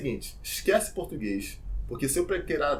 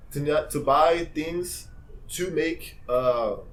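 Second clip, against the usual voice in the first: slow halting English; much slower than usual. Shown as a demonstration. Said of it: "Por exemplo".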